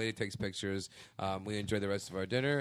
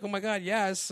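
high-pitched mock squeal of acceptance; retold excited yes; 9 semitones higher, 4 dB louder than usual. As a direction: gush it as the fiancée. Fiancée accepts proposal, retold.

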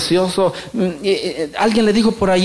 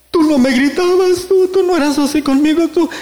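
hurt wife; 9 semitones higher than usual. Retold or imitated. Wife reproaches husband for shouting, high and hurt. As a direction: play the hurt wife, pitched well up. Preacher voices wife's reproach.

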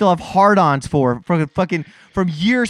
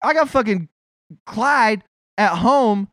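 exasperated mock Breen complaining, pitch rising; voicing Mike Breen; 5 semitones higher than usual. Fed-up announcer complains about his broadcast partner, mock exasperated. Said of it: "Poor Mike fucking Breen's like".

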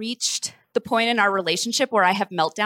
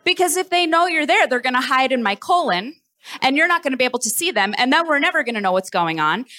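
worked-up rant; faster than usual. Retold or imitated. Retold panicked rant to boyfriend.

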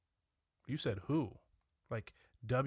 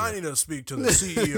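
mock entitled customer; 4 semitones higher, 7 dB louder than usual. Mock angry customer escalating.

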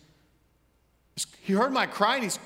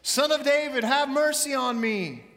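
high, pleading cry, slowing at the end; pleading shout; 7 semitones higher, slower than usual. Acted. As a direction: cry out to be heard over the crowd. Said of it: "He's screaming at the top of his lungs".

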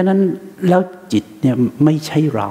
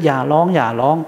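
tired hushing. Retold or imitated. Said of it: "ท่านก็พูดไปเถอะ".

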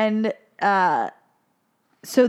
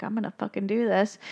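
serious; 5 dB quieter, faster than usual. Retold or imitated. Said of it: "real serious".

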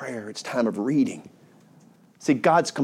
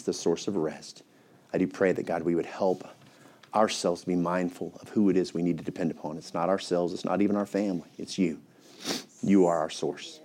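a pastor praying for his flock; closing prayer; 2 semitones lower than usual. Real, not acted.

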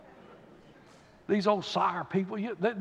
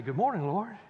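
glad greeting; 4 dB quieter than usual. Retold or imitated. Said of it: "get up this morning and say".

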